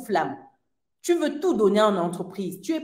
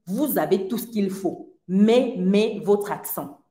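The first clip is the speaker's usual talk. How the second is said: mildly imitated recruiter, flat and direct with one hard mais; blunt recruiter. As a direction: say it straight to her face, lightly mimicking him. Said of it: "Le monsieur me l'a dit cash".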